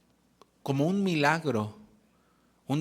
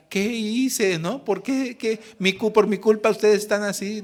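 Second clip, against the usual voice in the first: imitating crying mother; 7 semitones higher, 4 dB louder than usual. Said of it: "ella lloraba porque decía".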